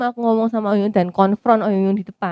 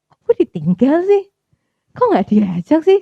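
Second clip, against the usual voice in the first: higher, louder, aggrieved; raised sulky "why wasn't I invited"; indignant complaint; 6 semitones higher, 4 dB louder than usual. Retold or imitated. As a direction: protest at being left behind. Inner complaint, left out.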